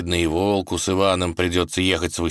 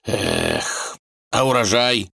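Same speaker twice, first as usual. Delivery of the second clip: sad drawl; 4 semitones higher, slower than usual. A narrator's reading. The tsar laments his harvest to his daughter, drawling sadly. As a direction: sigh and drawl «урожай» sadly. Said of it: "протянул печально".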